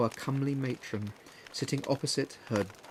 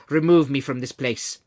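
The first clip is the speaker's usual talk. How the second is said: broken voice; 8 dB louder than usual. A narrator's reading. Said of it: "in a broken voice".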